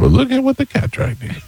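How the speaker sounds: very high-pitched put-on southern accent. Shown as a demonstration. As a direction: squeak it out in a mock southern accent. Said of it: "That's my southern accent".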